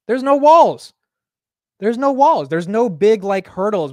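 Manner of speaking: real excitement over the chart; excited shout. Real, not acted. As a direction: shout it out, hyped about the order book. Excited over the order book.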